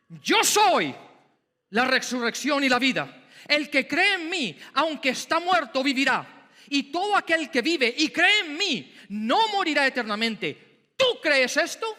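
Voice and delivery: ringing preacher voice; booming proclamation. Acted. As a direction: proclaim it over her weeping. Preacher booming Jesus' reply.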